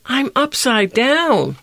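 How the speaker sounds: high, petulant whine of a little gift; whining. A narrator's reading. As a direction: complain like a child stuck upside down. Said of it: "whined Gift".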